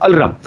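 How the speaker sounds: "Alram" said al-ram, r after the l; mispronounced alarm. Shown as a demonstration. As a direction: turn the ending into "ram": "Alram". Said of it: "this word is pronounced as Alram".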